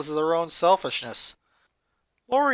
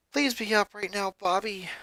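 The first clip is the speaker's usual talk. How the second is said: begging; 4 semitones higher, 3 dB quieter than usual. Acted. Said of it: "she begged".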